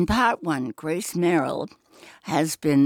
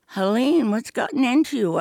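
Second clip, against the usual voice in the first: higher, faster, frightened plea; pleading; 6 semitones higher than usual. Acted. Heroine pleads with her armed sister, frightened and quick. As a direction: beg her sister to stop, rushing. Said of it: "I pleaded".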